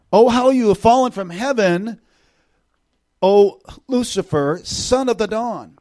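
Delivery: high, loud, drawn-out proclamation; emphatic lament. Acted. Preacher proclaiming the fall of Lucifer, emphatic lament. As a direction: cry it out slowly with grave emphasis. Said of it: "this is an emphatic".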